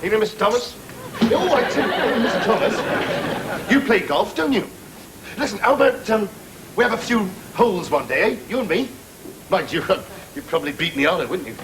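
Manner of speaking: ingratiating mock small talk with the boss, hammed up; fawning rehearsal. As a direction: practise buttering up the boss with forced chuckles. Harry rehearses greeting his boss.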